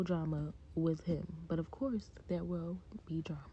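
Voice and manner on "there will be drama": hushed teaser. Real, not acted. Recapping the show for viewers, a hushed teasing whisper. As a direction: drop to a soft unvoiced whisper. Teasing aside after "of course.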